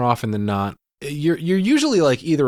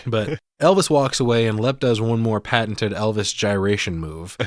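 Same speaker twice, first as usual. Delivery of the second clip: ordinary delivery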